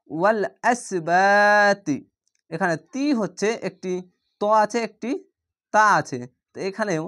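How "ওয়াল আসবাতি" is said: ওয়াল আসবাতি slow, তি said thick and heavy. Shown as a demonstration. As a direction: drawl ওয়াল আসবাতি with a full-mouthed তি. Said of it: "তি একটু মোটা করে পড়বেন". (মোটা করে তি, ধীরে ওয়াল আসবাতি)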